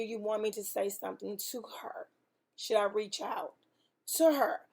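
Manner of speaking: breathy, unvoiced hesitation; asking the Lord in a whisper; hushed whisper. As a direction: whisper it as a private question to God. Private question to God, whispered.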